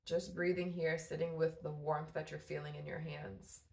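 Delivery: calm, measured guidance with long pauses between phrases; guided meditation. Real, not acted. Guiding mamas to breathe with warm tea in hand, guided meditation. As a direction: ease them into breathing and grounding, unhurried.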